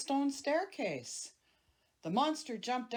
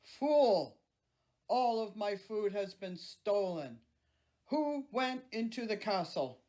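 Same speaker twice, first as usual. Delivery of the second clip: terrible rage. Acted. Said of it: "he flew into a terrible rage".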